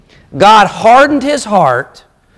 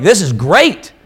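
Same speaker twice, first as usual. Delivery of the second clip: lively, building a bit louder and higher; imitating eager people getting swept up; mock excitement; 3 semitones higher, 4 dB louder than usual. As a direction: play the crowd cheering Moses on. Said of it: "They're like".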